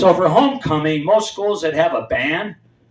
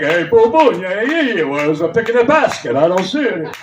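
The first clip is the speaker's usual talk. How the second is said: louder, lightly put-on cartoonish voice; refrigerator-light comic bit; 3 dB louder than usual. Toddler doing a hammed-up comedy bit as the fridge light comes on. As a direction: ham up a little stand-up routine for the fridge. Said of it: "Usually with stuff like".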